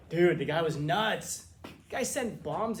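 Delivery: mock exasperated critic. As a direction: scoff like someone who won't engage. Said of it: "people are criticizing it".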